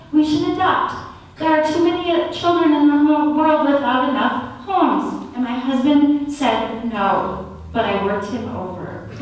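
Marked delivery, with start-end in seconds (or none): 0.1-5.3 higher, lightly urgent appeal; retold earnest plea. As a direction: plead the case, pitched up. Retells pleading with husband to adopt.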